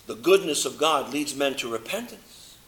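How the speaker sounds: preacher quietly restating his key verse. Shown as a demonstration. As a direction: drop the voice and repeat the verse softly. Preacher repeats the verse softly.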